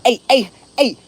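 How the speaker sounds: high, loud California "hey"; punchy mimicked California greeting; California accent imitation. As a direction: call out like a mock California hood guy. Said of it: "they talk crazy correct to me in California".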